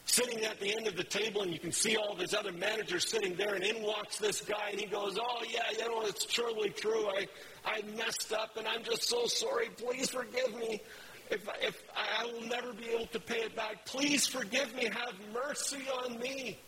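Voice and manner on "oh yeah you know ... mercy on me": higher, begging voice of a guilty servant; pleading employee caught embezzling, voice raised high. Retold or imitated. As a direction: beg for mercy, voice pitched up. Servant begs master for forgiveness.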